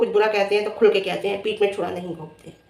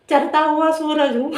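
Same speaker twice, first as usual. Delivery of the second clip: slow, higher-pitched mock boast through laughter; laughing mockery; 6 semitones higher, slower than usual. Mimicking a rival's boast about herself, laughing mockery. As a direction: draw it out high, laughing at the quote. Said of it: "तू कह रही थी".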